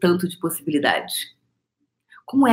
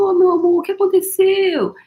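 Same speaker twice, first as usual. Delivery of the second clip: put-on much higher, loving call to a crying girl; tender high voice to child; 13 semitones higher, 5 dB louder than usual. To a crying little girl on the beach, a high tender coo. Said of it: "Aí eu fui falando".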